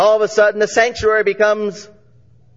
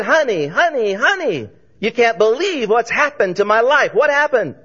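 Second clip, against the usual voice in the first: excited; 3 semitones higher than usual. Retold or imitated. Saved farmer excited to wife.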